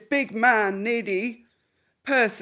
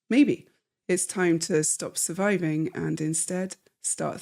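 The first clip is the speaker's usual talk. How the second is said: smooth, upbeat sponsor read; 3 semitones lower than usual. Acted. Host reading a sponsor ad to listeners, smooth upbeat read. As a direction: sell the membership warmly to listeners.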